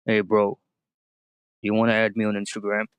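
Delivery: sudden manly voice. Retold or imitated. Imitating the girl who suddenly sounds like a guy asking for Instagram, low and slow. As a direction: drop into a man's voice, drawn out. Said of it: "वो जो मर्दाना आवाज़ आई थी ना उसके मुँह से".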